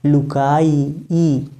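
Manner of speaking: "लुकाई" slowly, then "ई" alone; final ee picked out. Shown as a demonstration. Teacher isolates the rhyme, final "ई" sounded separately. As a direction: stretch "लुकाई", then repeat its long ee as "ई". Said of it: "उच्चारण में भी अंत में ई आया".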